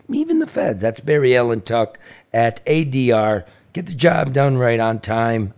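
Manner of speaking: lively sponsor read with punchy questions. Acted. Host pitches Next Evo to listeners, upbeat ad read. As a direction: sell the product to listeners.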